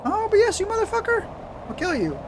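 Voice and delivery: very high, furious screaming; real rage at the machine; berserk rage. Real, not acted. Rage at the computer.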